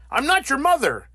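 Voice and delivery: stern. Acted. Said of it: "Bruce was very stern".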